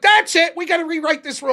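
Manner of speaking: loud, high, fed up; hammed-up manager at wit's end; mock exasperated boss. Cousin fed up.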